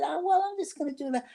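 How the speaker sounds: high, fast mock-breezy reply; sarcastic quip. Retelling her snippy answer to Martha. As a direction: toss it off, high and quick.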